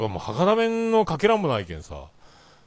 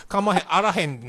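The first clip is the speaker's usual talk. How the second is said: higher, mock Kansai accent; fake Kansai dialect; 4 semitones higher than usual. Someone switching to Kansai on arrival, fake Kansai accent. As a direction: imitate someone putting on phony Kansai dialect. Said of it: "なんかインチキ関西弁になるよ".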